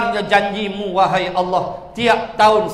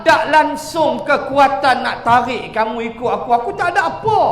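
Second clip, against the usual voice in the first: Satan's voice; 3 semitones higher than usual. Acted. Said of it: "kata syaitan".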